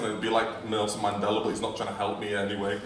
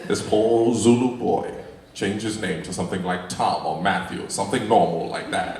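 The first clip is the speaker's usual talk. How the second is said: Morgan Freeman; 2 semitones lower than usual. Pretend. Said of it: "My voice is calming and soothing".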